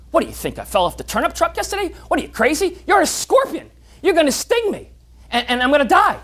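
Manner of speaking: high, incredulous frog scoffing at the scorpion; a mildly voiced frog who thinks the offer is crazy.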